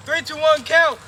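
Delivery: three two one count shouted high and loud; calling out. Real, not acted. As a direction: call the count across the field.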